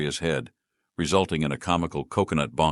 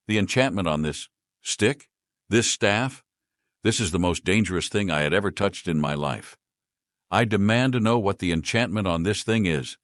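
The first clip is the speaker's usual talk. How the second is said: angry yell; 2 semitones higher than usual. Acted. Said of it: "she yelled angrily".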